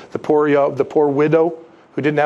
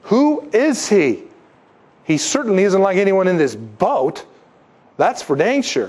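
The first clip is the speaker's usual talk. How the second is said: apostles' awe; 4 semitones higher than usual. Retold or imitated. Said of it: "they're like".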